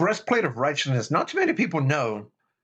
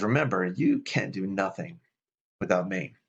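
gentle reminder; 3 semitones lower than usual. Retold or imitated. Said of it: "the Holy Spirit just says".

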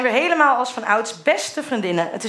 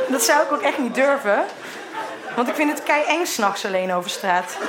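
laughing. Real, not acted. Laughing through the reading.

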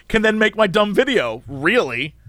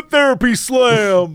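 slow, drawn-out hype call; mock triumphant announcer; 3 semitones higher, much slower than usual. Therapist roasting a client, mock triumphant hype. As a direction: announce the burn like a finishing move.

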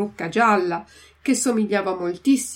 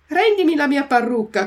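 higher, louder demanding shout; 6 semitones higher, 6 dB louder than usual. Acted. Antonio demands his wig from Geppetto, shouting. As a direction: bark the demand for the wig back. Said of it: "gridò mastro Antonio".

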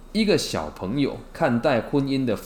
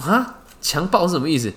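put-on confused child; 6 semitones higher, 4 dB louder than usual.

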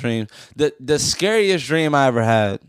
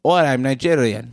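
imitated London Nigerian accent. Repeating it after co-host denies saying it, London Nigerian accent. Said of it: "Nigerian accent".

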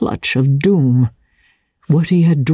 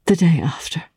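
a hushed, hesitant answer; hesitant whisper. Acted. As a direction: give it up reluctantly under the breath. She hesitates, answers low.

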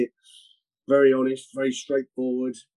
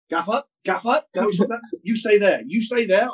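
mock frantic pleading; 7 semitones higher than usual. Physio intervening in anecdote.

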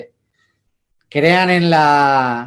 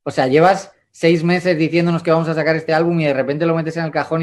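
incredulous, higher-pitched mock protest; retold disbelief; 3 semitones higher than usual. Artist retells his label's stunned reaction, mock incredulous. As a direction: imitate a stunned, objecting label boss. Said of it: "Sony estaba como".

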